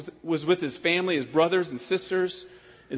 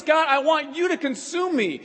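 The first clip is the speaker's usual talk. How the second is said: fervent prayer; 7 semitones higher than usual. Acted. Preacher voicing a fervent prayer.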